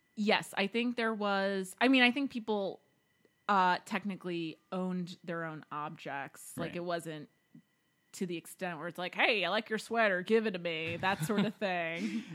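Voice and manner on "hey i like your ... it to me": put-on Southern bayou accent. Voicing an imagined person from a communal society, in a bayou Southern accent. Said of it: "it sounds like they were all in the bayou".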